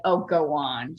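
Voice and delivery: mock New Jersey dismissal; Jersey accent. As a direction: brush it off in an imitated Jersey accent. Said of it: "in her Jersey's accent".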